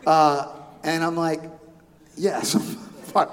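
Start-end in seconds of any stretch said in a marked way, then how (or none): 2.2-3.3 slow, halting mock reassurance; twitching, feigned calm. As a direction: act barely holding it together.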